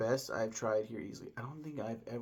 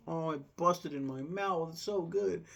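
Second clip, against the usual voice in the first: higher, slow, swooning over the taste; mock rapture; 6 semitones higher, slower than usual. Quoting himself at dinner, a high slow gush of delight. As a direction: gush about the burst yolk.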